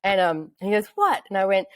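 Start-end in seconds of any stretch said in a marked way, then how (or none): 0.9-1.2 high, eager mock curiosity; playing excited. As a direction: imitate a partner playing along keenly. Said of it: "can you just get real excited for me".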